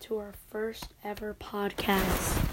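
stuffy nose from a cold; talking while sick with a cold. Real, not acted. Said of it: "I'm a little sick right now".

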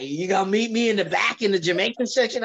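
deep raspy voice. Retold or imitated. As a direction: lightly put on his deep rasp. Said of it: "With his deep, raspy voice".

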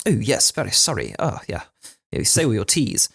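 lightly put-on Surrey accent; posh Surrey accent. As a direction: imitate very proper Surrey speech. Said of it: "So very kind of".

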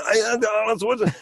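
high, fast hammed-up Austrian muscleman; overdone Arnold caricature; Arnold Schwarzenegger. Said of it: "when they do an Arnold Schwarzenegger".

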